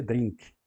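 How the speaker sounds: "drink" with a Brazilian nasalized i; Brazilian mispronunciation. Shown as a demonstration. Teacher showing the Brazilian tendency, nasal-vowel "drink". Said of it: "O brasileiro tem tendência a dizer".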